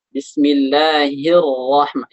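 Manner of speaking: Bismillahirrahman- slow, both ra thick and heavy; thickened ra. Shown as a demonstration. Ustaz demonstrating tajwid, Bismillahirrahman- with heavy ra. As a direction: stretch Bismillahirrahman- and thicken the sukun ra. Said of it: "yang pertama sukun".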